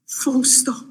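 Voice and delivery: "full stop" breathed out in a whisper. Acted. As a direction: let "full stop" fall to a hush. Repeating the point softly.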